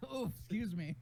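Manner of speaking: put-on prim British accent, lightly done; a hint of a posh British apology; British politeness. Player mocking the refined accent, light British. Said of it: "speak a little British".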